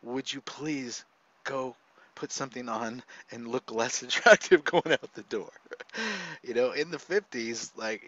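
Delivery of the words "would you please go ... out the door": mock scared father. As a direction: beg her to cover up, fretting and a bit louder. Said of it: "then I'm scared".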